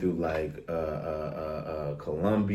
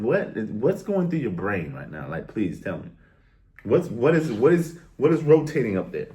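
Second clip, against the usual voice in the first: incredulous; 3 dB louder than usual. Retold or imitated. Staring down a confused brother.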